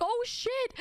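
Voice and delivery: high-pitched "oh no" reaction; retold shock. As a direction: act out seeing a friend wipe out. Retold shock at friend's fall.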